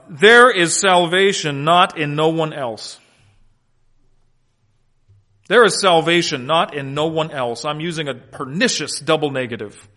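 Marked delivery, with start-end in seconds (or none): 0.1-3.0 slow, deliberate word-by-word reading; measured, emphatic literal rendering. Shown as a demonstration. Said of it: "let me read this literally". 5.5-7.6 deliberate word-by-word reading; measured repeat of a literal translation. Shown as a demonstration. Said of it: "let me read this literally".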